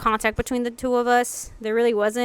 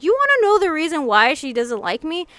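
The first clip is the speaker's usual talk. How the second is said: raised-pitch, emphatic mock telling-off; retold anger; 4 semitones higher than usual. Confronting friend for never defending her, retold anger. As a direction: lay out the accusation, higher and insistent. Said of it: "I got mad and I basically stood my foot".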